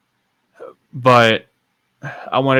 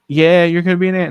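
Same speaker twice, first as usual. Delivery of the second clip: higher, louder happy announcement; retold excited confirmation; 7 semitones higher, 5 dB louder than usual. Brother confirms sister will be an aunt, excited. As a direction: break the good news with emphasis.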